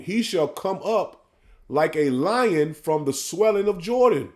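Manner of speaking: measured, drawn-out scripture reading; solemn sermon reading; slow preaching scripture read. Acted. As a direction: lay each phrase out slowly like a preacher.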